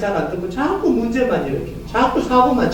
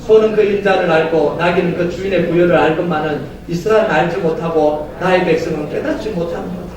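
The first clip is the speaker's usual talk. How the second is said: steady measured reading; unison scripture reading; 5 semitones lower than usual. Real, not acted. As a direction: read the verse together. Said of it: "시작".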